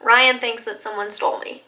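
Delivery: normal talking voice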